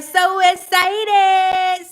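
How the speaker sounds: stretched out slowly while laughing; mock excited, laughing. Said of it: "He was like".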